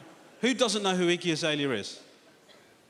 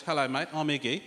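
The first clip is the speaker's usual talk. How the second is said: put-on Australian accent; 3 semitones lower than usual. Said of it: this is how a rapper talks.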